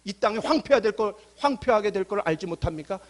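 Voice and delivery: acted prophet's lament, not fully wailed; mock crying out. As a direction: plead upward in mounting indignation, a touch of a wail. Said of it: "라고 막 울부짖는 거예요".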